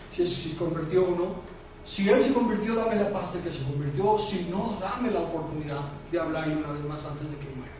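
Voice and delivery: subdued, intimate prayer voice; re-enacted prayer. Re-enacts kneeling prayer for father. (oración íntima, en voz contenida)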